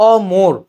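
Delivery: অমর broken as "aw... mor"; o-sound in middle. Shown as a demonstration. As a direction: stress a rounded "mor" in অমর. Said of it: "ওকারের মতো উচ্চারণ হচ্ছে". (ও-কার দিয়ে জোরে অমর)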